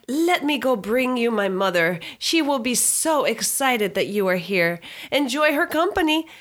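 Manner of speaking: lightly voiced prim child, rising at the end; polite little boy. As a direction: keep the boy's butler manners. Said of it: "So he says".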